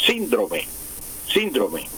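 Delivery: "síndrome" stressed SÍN-dro-me; esdrújula stress. Shown as a demonstration. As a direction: punch the first syllable of "síndrome", let the rest fall. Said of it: "palabra esdrújula".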